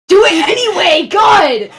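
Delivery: loud laughing insistence; yelling through a laugh; laughing shout. Real, not acted. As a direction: laugh it out loudly. Laughing, pushing Lean to look.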